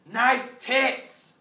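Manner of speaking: loud, high construction-site holler; shouted catcall. Acted. Construction worker calling to a passerby from high beams, shouted catcall. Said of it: "don't shout".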